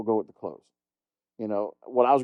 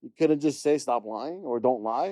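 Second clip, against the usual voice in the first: slow exasperation; 3 semitones higher, slower than usual. Retold or imitated. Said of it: "I was like".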